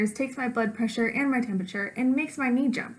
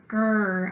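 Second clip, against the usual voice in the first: mock puppy growl; 2 semitones lower than usual. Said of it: "angry puppy face and growl".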